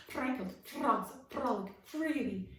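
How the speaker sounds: loud, carefully articulated repeat; repeated diction drill. Acted. Frog actor repeating his exercise, loud and careful. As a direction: run the twister again, precisely. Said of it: "he recited over and over".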